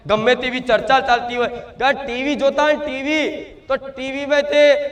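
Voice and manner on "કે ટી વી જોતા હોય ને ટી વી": normal talking voice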